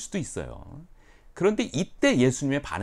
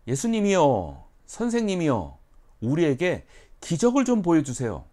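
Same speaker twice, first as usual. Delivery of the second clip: higher, louder begging; pleading scribes; 6 semitones higher, 7 dB louder than usual. Retold or imitated. Scribes begging Jesus for a miracle, higher pleading. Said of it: "서기관과 바리새인들이".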